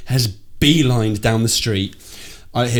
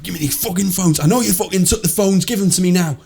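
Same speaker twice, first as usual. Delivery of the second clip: put-on higher-pitched, muddled northern English accent; rough northern accent; 7 semitones higher than usual. Mugger demanding phones from his victim, put-on northern accent. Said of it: "I don't know the difference in northern accents".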